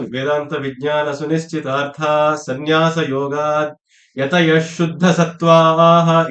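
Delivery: slow, measured verse chanting; slow Sanskrit recitation. Acted. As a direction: intone the shloka slowly.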